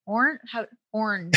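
"orange" squeezed into one syllable, like "ornj"; "orange" with its middle vowel dropped; odd coached pronunciation. Shown as a demonstration. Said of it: "wanted me to say orange as oran".

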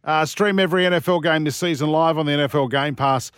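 brisk radio ad read. Acted. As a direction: sell it like a live read.

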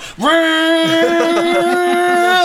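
high-pitched mock cackle. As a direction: cackle gleefully like a villain. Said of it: "just going".

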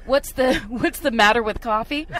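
light Seinfeld-style rising bit; lightly voiced Seinfeld observational lilt; comic hamming up a Seinfeld bit for friends, lightly voiced; Jerry Seinfeld impression. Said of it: "that Jerry Seinfeld bit".

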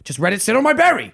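high, loud mock outrage in a Korean accent; put-on Korean accent. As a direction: wail it with an imitated Korean accent. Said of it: "I'm gonna inadvertently do the accent".

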